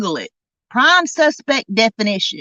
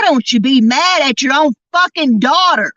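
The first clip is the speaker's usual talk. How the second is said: fast, raised, furious challenge; angry outburst; 4 semitones higher, 3 dB louder, faster than usual. Real, not acted. Telling the mother to blame her daughter, an angry fast outburst. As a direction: fire it back at her, fast and heated.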